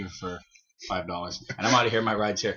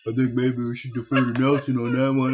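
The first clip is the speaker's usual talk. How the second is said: Eric voice. Retold or imitated. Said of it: "I'll just do an Eric voice".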